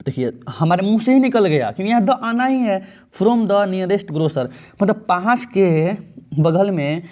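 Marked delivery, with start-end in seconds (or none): 3.2-4.5 very slow, word by word; slow dictation of the exam sentence; slow read-aloud. Shown as a demonstration. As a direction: spell the sentence out slowly for students. Teacher reading exam sentence slowly.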